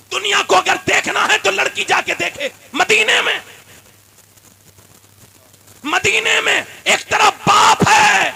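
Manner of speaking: loud, fervent sermon delivery; fiery pulpit preacher rousing the faithful; preaching at full force. Acted. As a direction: preach it hard to the crowd.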